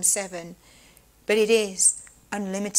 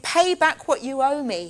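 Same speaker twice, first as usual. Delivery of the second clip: a harsher, higher demand for payment; 5 semitones higher, 4 dB louder than usual. A narrator's reading. The servant chokes his debtor and demands payment, harsh. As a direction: make it a demand. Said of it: "he demanded".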